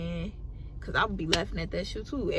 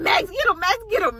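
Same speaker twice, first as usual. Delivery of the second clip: higher and louder mock yell at the dog; angry mom commanding; 11 semitones higher, 5 dB louder than usual. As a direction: sic the dog, rising in pitch. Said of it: "she was like".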